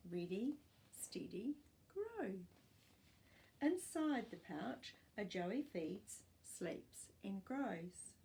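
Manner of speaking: put-on clear, even storybook reading for young pupils; reading to children. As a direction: read it like a class picture book. Teacher reads picture book aloud.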